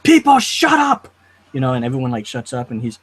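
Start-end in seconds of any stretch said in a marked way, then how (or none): 0.0-1.1 high, loud imitation of a superior man; drawn-out, talking-down shout; condescending command. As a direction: shout it down at them, mock-imperious and slow. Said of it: "how he talks in that condescending tone".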